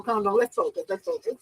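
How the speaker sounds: high giggly pep talk to herself; giggly self-calming. Real, not acted. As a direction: laugh at your own excitement. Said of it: "Okay, calm down".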